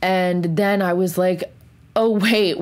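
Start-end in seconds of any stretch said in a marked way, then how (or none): 1.9-2.6 sudden realization. Retold or imitated.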